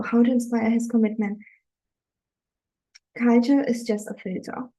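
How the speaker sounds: ordinary talk, nothing marked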